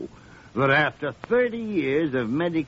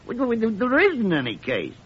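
higher, sputtering protest; indignant; 6 semitones higher than usual. Acted. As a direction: splutter at the absurdity. Gillespie indignant about trivial case.

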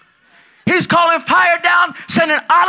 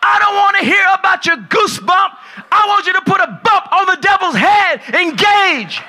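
pastor's rebuke; 5 semitones higher than usual. Retold or imitated. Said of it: "I go".

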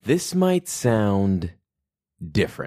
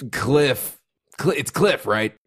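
intimidating cop voice; 5 semitones higher than usual. Acted. Character knocks, intimidates suspect.

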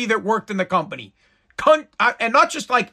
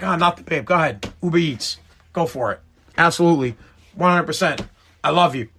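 innocent sweet-talk; 4 semitones lower, faster than usual. Acted. Husband covering up to wife.

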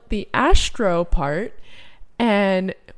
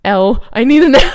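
imitating co-host; 13 dB louder than usual. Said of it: "And she's like".

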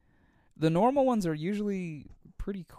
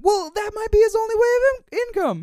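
laughing; 11 dB louder than usual. Real, not acted. Teasing comeback, laughing.

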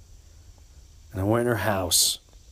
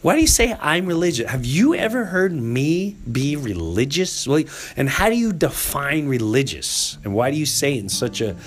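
retort to friend; 2 semitones higher than usual. Retold or imitated. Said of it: "I'm like".

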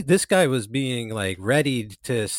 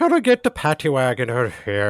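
louder mock Irish accent; 5 dB louder than usual. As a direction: imitate a loud Irish cop. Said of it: "top of the morning to your Irish accent".

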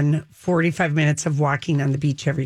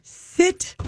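exasperated; 11 semitones higher than usual. Real, not acted. Exasperated about couple sitting close.

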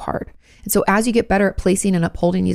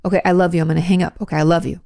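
gentle goodbye; faster than usual. Shown as a demonstration. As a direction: say goodbye kindly while hanging up. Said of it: "It can be done with love".

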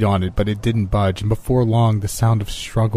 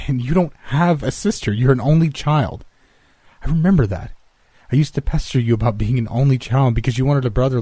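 insistent; 5 semitones higher than usual. Acted. Insisting her friend has no sister.

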